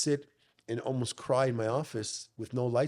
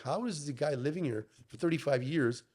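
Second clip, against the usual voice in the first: retold disbelief; 3 semitones higher than usual. Son recalling asking dad's landlord, incredulous. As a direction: retell it as a baffled demand for answers.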